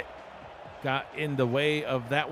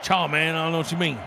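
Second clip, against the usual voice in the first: mock Cajun accent; 3 semitones higher, 4 dB louder, faster than usual. Colleague mocking the Cajun's denial of an accent, hammed-up Cajun. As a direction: tease with a put-on Cajun accent. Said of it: "We're like".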